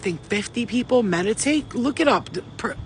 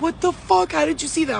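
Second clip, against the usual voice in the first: upset shock; 8 semitones higher than usual. Retold or imitated. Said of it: "and she starts crying".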